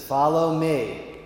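slow, drawn-out catchphrase; lightly solemn, stretched-out invitation; Jesus. Acted. Jesus leading them through the door, slow and solemn. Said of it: "and Jesus says".

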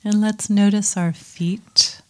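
calm meditation guide with long pauses; guided meditation. Acted. Teacher settling a group into mindfulness practice, calm guiding voice. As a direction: settle listeners in gently, leaving space between phrases.

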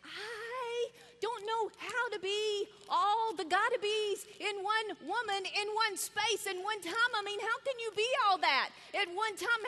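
half-tearful retold anxiety; overwhelmed. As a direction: plead as if it is all too much. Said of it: "begin to get the heebie-jeebies".

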